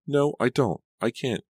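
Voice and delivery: high-pitched, agitated refusal; insistent. A narrator's reading. Laura trying to end the call with Martha, insistent. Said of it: "she insisted".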